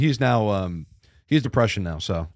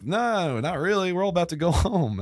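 friends brushing him off; 7 semitones higher than usual. Retold or imitated. Voicing the friends.

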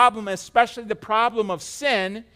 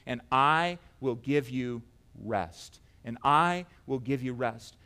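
measured promise; 7 semitones lower, 5 dB quieter, slower than usual. Acted. First reading of the promise, unforced.

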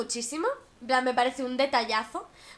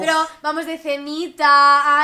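mocking dismissive guy; 7 dB louder than usual. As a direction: brush it off like a noncommittal guy. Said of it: "Los chicos que te tratan como si fueras su novia".

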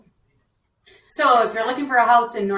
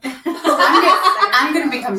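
laughing; 5 semitones higher, 7 dB louder than usual. Real, not acted. Group laughing at radio voices.

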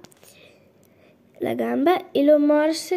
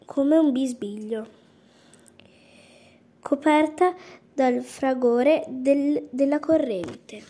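usual speaking voice

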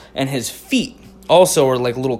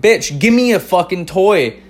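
put-on higher, louder, slow bratty kid voice; bratty toddler demand; 6 semitones higher, 5 dB louder than usual. Toddler to his mom in the mall, slow loud whine. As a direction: demand the toy like a spoiled three-year-old. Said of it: "And I was like".

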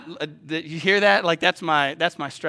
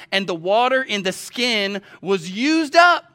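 slow, deliberate Bible reading, louder; Scripture reading; 4 semitones higher, 6 dB louder, slower than usual. Acted. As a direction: read the verse out slowly with weight. Reads Scripture aloud, building.

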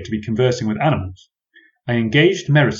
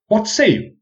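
mock question; 12 semitones higher, 4 dB louder than usual. A narrator's reading. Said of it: "I added".

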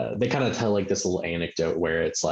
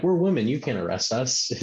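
mock entitled women; 6 semitones higher than usual. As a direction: squeal it like pampered indignant women. Friend mocks entitled women's outrage.

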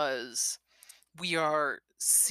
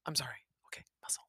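sorry and muzzle breathed, unvoiced; soft whispered aside; whispered apology; 4 semitones lower, 15 dB quieter, much faster than usual. Real, not acted. Parent apologises mid-reading.

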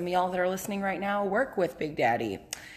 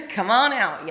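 calling out; 4 semitones higher, 8 dB louder than usual. Real, not acted. Calling listeners to the club.

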